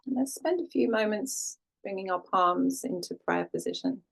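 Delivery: calm, unhurried settling-in voice with long pauses; guided meditation. Real, not acted. Yoga teacher guiding class to land and breathe, calm meditation voice. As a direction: ease the listener gently into stillness, leaving space between phrases.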